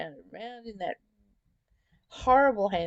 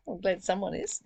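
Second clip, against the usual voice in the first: chuckling through the words; amused, laughing at Siri; 3 semitones higher, faster than usual. Real, not acted.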